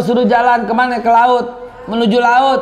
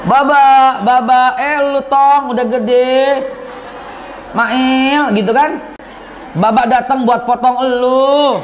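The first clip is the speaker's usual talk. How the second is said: Bekasi dialect; 2 semitones higher, slower than usual. Retold or imitated. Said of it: "Takkan orang Bekasi".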